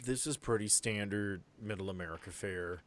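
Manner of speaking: usual speaking voice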